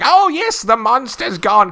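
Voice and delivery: put-on high, loud old lady, slow at the end; shrill-free squeak of an excited old woman, drawn out. Retelling the old lady in the film, high old woman voice. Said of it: "old lady who's, like, telling everybody".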